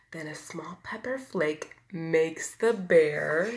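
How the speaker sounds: lively bedtime storybook read; reading to children. A narrator's reading. Reader to children, lively storybook voice. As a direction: tell it like a picture book to little ones. Reads picture book aloud.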